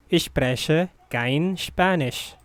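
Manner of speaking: careful, unhurried enunciation. Shown as a demonstration. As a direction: space the words out for learners. Teacher repeats slowly for learners.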